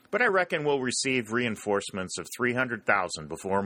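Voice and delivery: calm tall tale. Acted. Sergeant calmly boasting troop numbers to the Rebel. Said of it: "replied the sergeant calmly".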